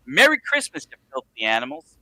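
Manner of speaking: reading out a famous movie line; movie quote. Retold or imitated. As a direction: quote it with a grin. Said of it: "can you say for the crowd the".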